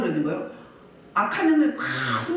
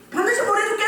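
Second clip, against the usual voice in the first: high-pitched, insistent mock promise; acted-out vow in a raised pitch; emphatic promise; 10 semitones higher, faster than usual. Voices Pharaoh promising to release them.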